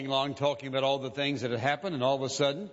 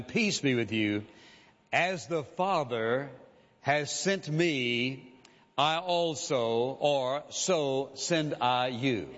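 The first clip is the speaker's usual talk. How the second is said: slow, deliberate reading of the verse; solemn scripture reading; slower than usual. Acted. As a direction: read each phrase slowly and let it land. Reads the verse aloud solemnly.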